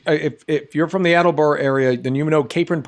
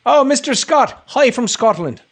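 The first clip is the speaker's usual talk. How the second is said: higher, louder hail to a viewer; excited greeting; 8 semitones higher, 5 dB louder than usual. Acted. Host greets Mister Scott from Scotland, high excited greeting. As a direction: call it out high and eager.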